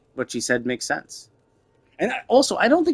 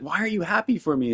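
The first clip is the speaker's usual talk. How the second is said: higher-pitched mocking imitation; put-on higher voice, mocking; mock indignation; 7 semitones higher than usual. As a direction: mimic an indignant complaint in a raised pitch. Mimics character's indignant reaction.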